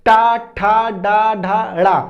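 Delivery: "टा, ठा, डा, ढा, ड़ा" spoken syllable by syllable, tongue curled back; sounding out letters. Shown as a demonstration. Teacher showing the class how the ta-group is pronounced, clear and deliberate. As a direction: model each "टा" "ठा" "ड़ा" distinctly with pauses. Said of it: "अगर हम इसका उच्चारण करें".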